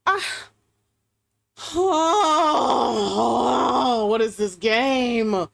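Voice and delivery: a drawn-out appalled cry at the game; shocked outcry. Real, not acted. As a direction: cry out in disbelief, slowly. Player shocked by the game's cruelty.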